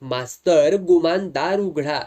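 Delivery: loud, commanding call through the door; stern voice. Acted. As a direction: order him to open up. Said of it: "जरबेचा आवाज".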